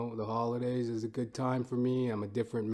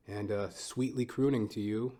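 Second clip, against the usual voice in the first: usual speaking voice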